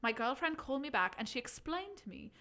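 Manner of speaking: put-on light Irish accent reading. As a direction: keep the Irish lilt going. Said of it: "do it in Irish".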